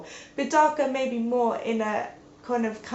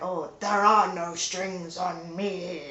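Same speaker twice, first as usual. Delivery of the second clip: slow, menacing robot villain; mild Ultron voice; Ultron quote; 3 semitones lower, slower than usual. Retold or imitated. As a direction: drawl it like a cold villain. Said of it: "quotes Disney's Pinocchio, and he's like".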